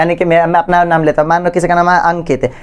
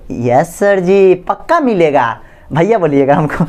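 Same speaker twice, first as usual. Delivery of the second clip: pupils answering; 3 semitones lower than usual. Acted. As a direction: lightly act pupils agreeing, stretching each word. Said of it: "तो आप लोग क्या बोलेंगे".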